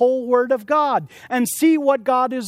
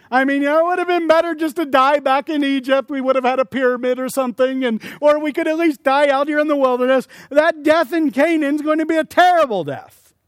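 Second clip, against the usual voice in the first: higher, louder mocking complaint; mocking whiny voice; 5 semitones higher, 3 dB louder than usual. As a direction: lampoon the grumblers.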